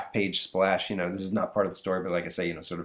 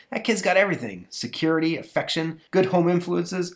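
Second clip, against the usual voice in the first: baffled dad; 8 semitones higher than usual. Acted. Father voiced.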